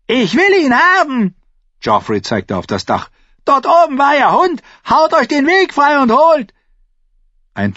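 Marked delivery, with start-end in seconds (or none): 0.1-1.3 high, loud tantrum; furious yell. A narrator's reading. King insisting on catching the culprit, yelling furiously. 3.5-6.5 high, loud commanding yell; furious shout. A narrator's reading. King sending his guard through the crowd, shouting.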